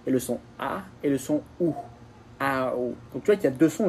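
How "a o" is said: A gliding into O as one vowel; gliding diphthong. Shown as a demonstration. Teacher demonstrating a diphthong to a learner, A gliding into O. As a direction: slide from A to O without a break. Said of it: "je glisse de l'un à l'autre".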